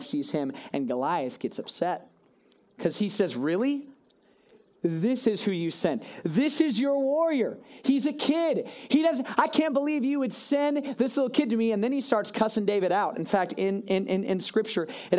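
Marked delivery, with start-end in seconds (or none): 3.4-11.7 sneering giant. Acted. Goliath sneering at the army for sending a kid. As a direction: scoff at the tiny challenger.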